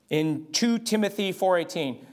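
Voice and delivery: lightly South African, saying "two Timothy" for Second Timothy; a hint of a South African preacher reading "two Timothy four eighteen". Shown as a demonstration. Preacher showing his congregation the South African way of citing scripture. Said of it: "that's how they say it in South Africa".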